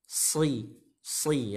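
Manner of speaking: "Si, si" with a whistling, thick s; whistling sad. Shown as a demonstration. Teacher explains sofir, "Si" whistled on the s. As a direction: let the s of "Si" whistle like a bird. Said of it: "Seperti suitan burung".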